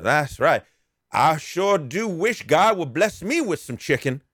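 lightly voiced beggar hinting for chicken. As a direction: drawl it out slow and hopeful. Beggar voiced in retold story.

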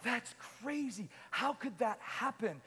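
slow, stunned mock protest; incredulous, drawn-out what; bewildered disbelief. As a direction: act out a baffled listener questioning God. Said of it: "And you're like".

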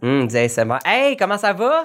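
bouche collée au micro, façon ASMR; trop près du micro. Real, not acted. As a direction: parle tout près du micro. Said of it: "T'es trop proche". (trop près du micro)

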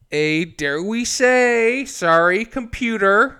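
slow, halting admission; mock-reluctant confession. Real, not acted. Admitting he watched it on a computer, mock-reluctant. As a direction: drag it out like an embarrassing confession.

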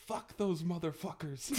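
slow, laughing through it; kid swearing. Retold or imitated. Dad retelling his son's swear while laughing, slow. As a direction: imitate the boy, cracking up. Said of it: "Sawyer voltea y dice".

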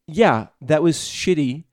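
slow sincere quote. Retold or imitated. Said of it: "he basically said".

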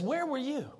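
lightly voiced thundering God. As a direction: question Job from on high. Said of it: "He says".

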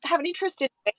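real welling up while talking; getting teary. Real, not acted. Producer recalling her childhood radio idol, getting teary. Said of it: "I'm getting teary now".

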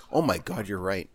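high, loud mock meltdown; hammed-up outrage. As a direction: play the hysterical customer, overacting. Mock panic then mock rage.

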